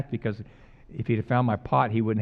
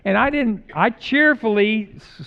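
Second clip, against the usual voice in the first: high, loud laughing talk; 10 semitones higher, 9 dB louder than usual. Real, not acted. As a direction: laugh through the correction. Laughing while correcting himself.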